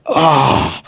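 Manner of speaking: acted groan. Armored man getting back up after pain, acted groan. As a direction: groan as if hauling yourself up. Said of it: "gets back up, like".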